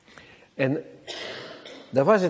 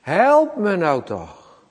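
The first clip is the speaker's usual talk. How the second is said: pleading cry; 4 semitones higher, 4 dB louder, much slower than usual. Retold or imitated. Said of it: "die roept wel vier keer".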